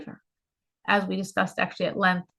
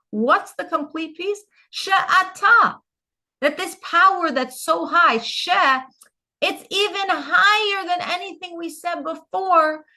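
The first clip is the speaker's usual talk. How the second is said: higher, louder and lifted, carried away by the idea; fervent preaching; 7 semitones higher, 4 dB louder than usual. Acted. Teacher swept up explaining She'ata to students, fervent and high. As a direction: preach it with rising fervor.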